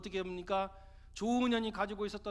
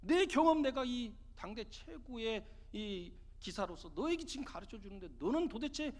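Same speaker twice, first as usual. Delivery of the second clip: retold anger, mildly voiced; 3 semitones higher than usual. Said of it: "막 화를 내는 거예요".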